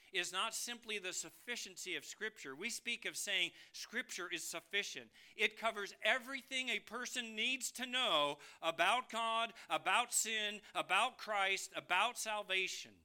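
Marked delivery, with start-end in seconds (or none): 5.4-12.9 emphatic, punched list; forceful preaching. Acted. Preacher assuring the congregation of Scripture's sufficiency, forceful preaching. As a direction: preach it out item by item.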